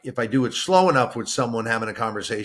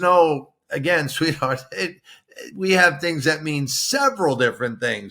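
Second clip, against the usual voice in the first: patient tutor; 3 semitones higher than usual. Retold or imitated. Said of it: "and she goes".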